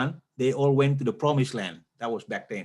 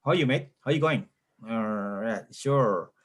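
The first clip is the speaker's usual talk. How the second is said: imitated Australian talk, kept inside the mouth; Australian accent; 2 semitones lower than usual. Imitating badminton players' small talk, inward Australian accent. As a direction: mimic an Australian accent, words swallowed inward. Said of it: "Their accent is, like, inside".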